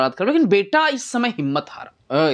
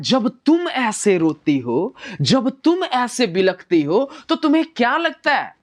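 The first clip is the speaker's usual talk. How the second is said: a touch of a pleading lover, slightly higher; 4 semitones higher than usual. Acted. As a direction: plead gently with the crying beloved. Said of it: "ये बोलता है". (रोती प्रेमिका से विनती करता प्रेमी)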